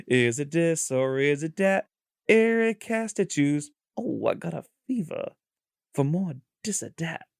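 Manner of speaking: lightly done Walken, halting rhythm; bad Walken impression. Host opens his quiz game, bad Walken impression. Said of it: "could do a worse walk-in impression".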